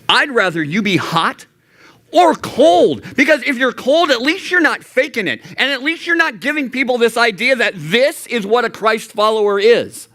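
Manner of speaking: high, impassioned preaching; preaching fervor. Real, not acted. Youth pastor urging teens, high and impassioned. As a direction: lift it up and plead with the room. Preacher driving point home.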